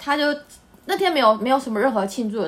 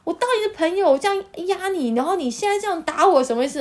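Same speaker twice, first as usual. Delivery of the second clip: upset accusation; 6 semitones higher than usual. Retold or imitated. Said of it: "女生朋友就是更不爽".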